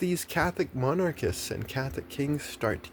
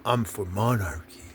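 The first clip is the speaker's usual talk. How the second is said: mock monarchist Catholic. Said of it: "You're, you're".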